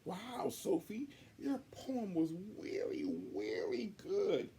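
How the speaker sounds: put-on high, slow girlish voice; sweet tagalong kid, drawn out; a high little girl; little Allie voice.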